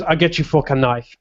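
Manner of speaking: imitated French waitress accent. French waitress answering a customer, imitated French accent. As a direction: lightly mimic a French accent on "fork and knife". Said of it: "she used to say fork and knife like that".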